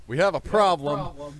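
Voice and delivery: screamed alarm call. Acted. Player character alerting the rest of the party, long booming scream. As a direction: holler it slowly so the whole party hears. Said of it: "scream to the rest of the party".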